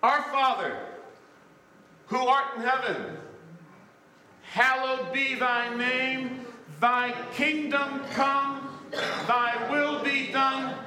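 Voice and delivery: preached prayer recitation. Real, not acted. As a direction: stretch each phrase solemnly from the pulpit. Recites the Lord's Prayer to congregation.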